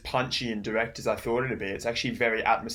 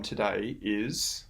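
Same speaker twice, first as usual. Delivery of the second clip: cut off suddenly; 3 dB quieter, much slower than usual. Real, not acted. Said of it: "sorry about this sudden cut".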